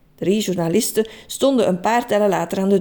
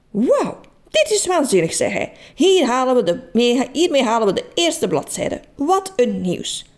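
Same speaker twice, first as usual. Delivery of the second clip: thrilled; 3 semitones higher than usual. Acted. Journalist thrilled by the story.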